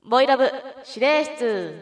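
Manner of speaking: loud, high title call; コーナーのタイトルコール. Acted. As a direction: announce the segment title with full force. 番組コーナーのタイトルコール. (力強く高らかなタイトルコール)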